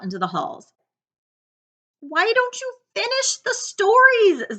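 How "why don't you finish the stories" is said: put-on high, slow pleading boy's voice. Zach begs classmates to finish stories, high slow plea. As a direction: beg the class to stop. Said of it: "Zach pleaded".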